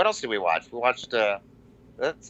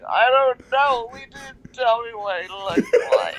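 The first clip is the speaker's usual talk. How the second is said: high, slow, half-laughing panic; can't spot him in the crowd; slow high fluster breaking into laughter; flustered Danielle; 11 semitones higher, slower than usual. Retold or imitated.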